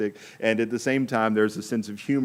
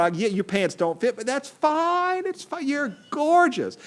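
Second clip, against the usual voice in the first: sugary, much higher flattery, rising to a falsetto coo; butter up the king, higher and higher; gushing wife buttering up her husband, pitched way up; flattering queen; 5 semitones higher than usual. Acted. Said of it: "she just blows sunshine".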